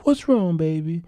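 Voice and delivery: high, tender question to her husband; comforting wife. Retold or imitated. Wife asking her collapsed husband what's wrong, tender and high. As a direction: voice the wife soothing her man.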